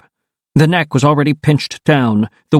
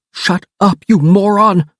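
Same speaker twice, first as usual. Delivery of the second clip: sharp annoyed shout, higher; yelling; 8 semitones higher than usual. Acted. Marco yells at screaming David to shut up. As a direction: snap it at him, fed up. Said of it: "I yelled".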